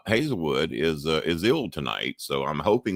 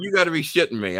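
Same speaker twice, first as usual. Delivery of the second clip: stunned disbelief; 11 semitones higher, faster than usual. Retold or imitated. Host reliving the caller's answer, high stunned outburst. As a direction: react as if floored by the news.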